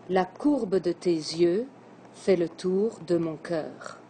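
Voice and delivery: slow, measured verse reading; slow poem recital. Shown as a demonstration. Teacher reciting a verse slowly to the class. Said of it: "Voici l'exemple d'un vers".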